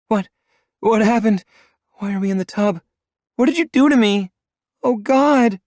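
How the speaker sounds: high, loud frightened cries; panicked crying. A narrator's reading. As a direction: panic rising, voice near tears. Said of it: "she cries".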